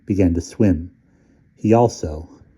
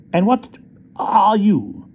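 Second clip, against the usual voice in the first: high, pointed challenge; defiant little soldier; 13 semitones higher, slower than usual. A narrator's reading. Soldier challenging the rat, high and pointed. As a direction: give as good as he got. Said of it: "determined to give as good as he got".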